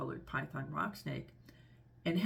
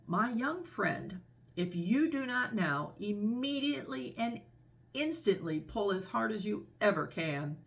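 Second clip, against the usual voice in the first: slightly raised, formal snake voice; pompous python; 2 semitones higher than usual. Acted. Python warns the elephant's child, mildly pompous. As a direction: lightly voice a long-winded python. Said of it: "This is the way bicolored python rock snakes always talk".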